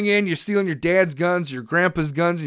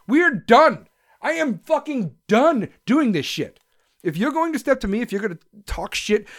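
sharp, much higher furious burst; angry outburst; 5 semitones higher than usual. Real, not acted. Fed-up man vents his rage at online critics, furious. Furious rant about threats.

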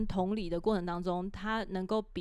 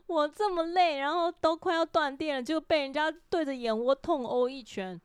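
higher, louder indignant scolding; indignant complaint, voice up; exasperated mom rant; 6 semitones higher, 4 dB louder than usual. Retold or imitated. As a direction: vent like a worn-out mother who just got headbutted. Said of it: "然后我就说".

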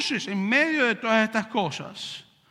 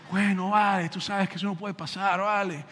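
put-on Venezuelan accent. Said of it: "como hablaba así".

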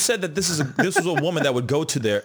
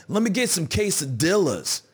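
mock Spanish accent; 8 semitones higher than usual. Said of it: "It's like".

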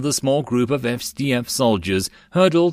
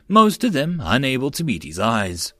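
ordinary delivery, nothing marked

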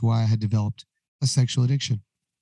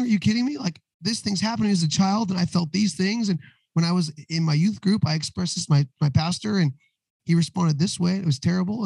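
higher, exasperated mock rant; retold explosion; 5 semitones higher than usual. Husband unloading on his wife after therapy, mock rant. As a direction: unload it all in one pitched-up burst. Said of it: "I just explode".

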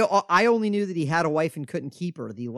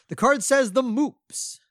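higher, slow, hammed-up crying; mock wail; 10 semitones higher, 3 dB louder, slower than usual. Reading the trivia card to his co-host, hammed-up mock wail. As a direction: drag it out like a fake sob.

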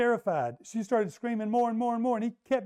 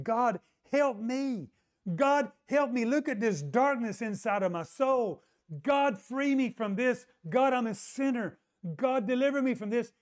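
pleading prayer; 5 semitones higher than usual. Retold or imitated. Girl in the cornfield begging God to free her. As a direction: cry out for deliverance.

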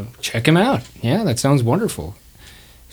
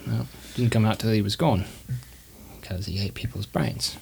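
orphan witness; 3 semitones lower than usual. Acted. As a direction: trail down into a hushed account. Orphan explains where he hid.

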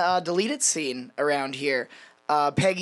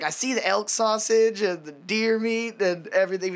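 higher-pitched mock complaint about breakfast; Cotton's retold yell; 5 semitones higher than usual. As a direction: lightly imitate a man yelling. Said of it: "Cotton starts yelling about the bacon".

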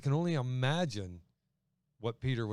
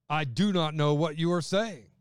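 vehement denial; 3 semitones higher, 6 dB louder than usual. Acted. Peter's vehement denial read.

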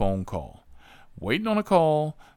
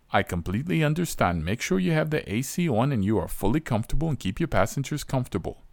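fast overly polite dispatcher; 3 semitones higher, faster than usual. Retold or imitated. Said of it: "his response was".

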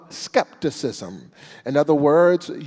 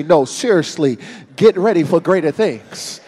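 louder, emphatic repeat; more insistent; 6 dB louder than usual. Shown as a demonstration. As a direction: say it like you mean it. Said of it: "touch 'em one more time and say".

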